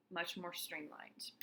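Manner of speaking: slow hushed whisper; soft, slow whispered verdict; whispered remark. Real, not acted. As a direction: breathe it out slowly as an aside. Teacher's quiet comment.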